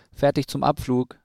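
eager little owl calling out, mildly acted; called out. A narrator's reading. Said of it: "rief die nächste Eule".

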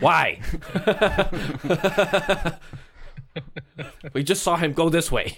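loud, high, laughing detective. Pretend. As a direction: crack up while playing the sleuth. Acting detective, cracking up.

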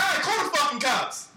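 high-pitched mock defiance; retold defiant retort. Dad daring the man to call police, mock defiant. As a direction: dare him, imitating an angry dad.

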